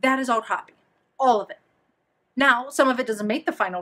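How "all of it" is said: "All" pushed louder, falling; stress on ALL. Real, not acted. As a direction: lean hard on "All". Insisting everything is copy.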